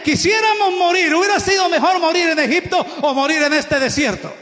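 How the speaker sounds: mocking complaint. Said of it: "Sabe qué dijeron esta gente".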